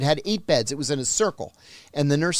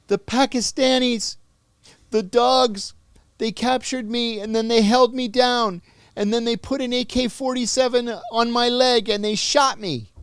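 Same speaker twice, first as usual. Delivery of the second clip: higher, tearful complaint; crying prisoner; 9 semitones higher, 3 dB louder than usual. Retold or imitated. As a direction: play him weeping as he accuses. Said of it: "he's crying".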